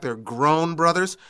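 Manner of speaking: emphasis on "grown"; stress on grown. Real, not acted. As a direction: lean on the word "grown" to underline it. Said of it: "I emphasize the fact".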